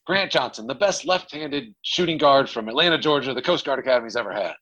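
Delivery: imitating the coach bigging up a player; light hype-man voice; coach hyping him up.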